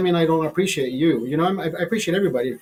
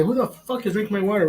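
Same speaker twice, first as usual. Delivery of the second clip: mock bark; 5 semitones higher than usual. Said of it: "bark at myself and say".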